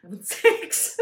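unvoiced, airy delivery; croaked, lifeless-sounding words; dead-sounding. Real, not acted. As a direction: let the words out with no voice. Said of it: "I sounded dead".

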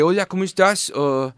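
a tourist from France trying out his Spanish; French accent. Retold or imitated. A Frenchman greets Mexicans in Spanish, in a French accent. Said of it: "un francés hablando español".

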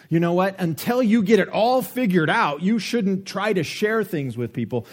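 hammed-up scolding. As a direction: lecture them like a strict church elder. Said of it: "The gospel of sin management says".

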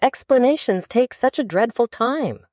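high-pitched, impatient complaint; mildly acted exasperation. A narrator's reading. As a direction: complain about being held up. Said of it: "in an impatient tone".

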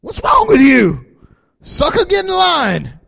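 bully the soul into line; a touch of mock toughness; scolding your soul. Shown as a demonstration. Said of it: "speak to your soul".

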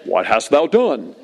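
slow, lightly mock-grand voice of God; a hint of solemn, stately pronouncement; James Earl Jones. Shown as a demonstration. God to Cain as people imagine it, slow mock solemnity. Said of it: "sound like James Earl Jones".

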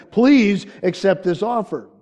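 loud, slow, earnest plea; pleading. Acted. Offering the lost a plea bargain, pleading. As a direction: plead it out slowly and loudly. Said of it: "pleading with them".

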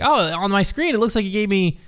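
a hint of a high granny voice; retelling as a puzzled old lady; imitated old grandma. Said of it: "sounded like an old grandma".

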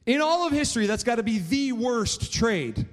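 "the worst trade" slowed and stressed on THE; incredulous emphasis. Real, not acted. Preacher reacting to Esau trading his birthright, incredulous emphasis. Repeats mocked deal for emphasis.

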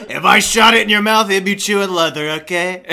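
Trump impression. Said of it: "My Trump impression".

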